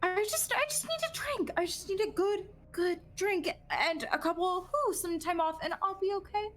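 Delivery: high, strained pleading for a drink. Acted. Battered Cassandra pleads with Darius for a drink, high and strained.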